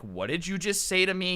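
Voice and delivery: mock-superior affronted question; lightly snooty, imitating an offended rich kid. Rich kid replying to being told off, mildly snooty. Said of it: "all snooty as if he's superior".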